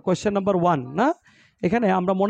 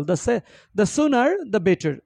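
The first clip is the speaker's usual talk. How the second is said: very slow, spaced out; slow model reading; 2 semitones higher, much slower than usual. Shown as a demonstration. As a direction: read the proverb slowly. Teacher reading example slowly. (ধীরে ধীরে পড়া)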